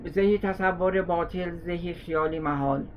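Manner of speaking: put-on slow drawn-out Isfahani accent. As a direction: mimic an Isfahani saying, slowly. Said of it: "من ادا اونا رو در آوردم".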